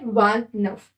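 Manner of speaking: वांत नफ as "vant" plus "nuhf"; French pronunciation. Shown as a demonstration. Teacher modelling twenty-nine in French, वांत नफ pronounced the French way. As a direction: say वांत नफ as French vingt-neuf. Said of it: "क्या बोलते हैं?".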